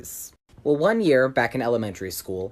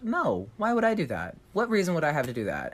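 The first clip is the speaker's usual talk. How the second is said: feigned innocence; 4 semitones higher than usual. Retold or imitated. Narrator lying to the bus driver, high fake-innocent voice. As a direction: play the sweet innocent kid.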